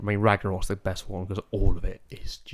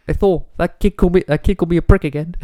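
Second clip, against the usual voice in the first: high, loud tattling whine; whiny complaining voice; 9 semitones higher, 7 dB louder than usual. Retold or imitated. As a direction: complain to Thor like a kid. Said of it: "He's like".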